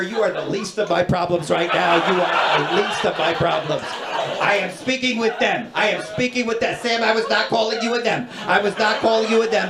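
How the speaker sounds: high, exasperated, over-enunciated officialese; flustered gate agent. Retold or imitated. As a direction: imitate an airline agent juggling angry passengers. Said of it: "these cranky airport gate agents".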